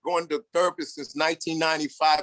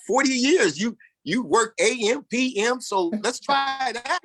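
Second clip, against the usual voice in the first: self pep talk; 7 semitones higher than usual. Retold or imitated.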